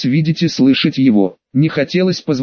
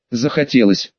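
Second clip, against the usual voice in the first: lower, even and unbothered; calm; 4 semitones lower than usual. Acted. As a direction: say it calmly and lower. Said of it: "абсолютно спокойно ответил".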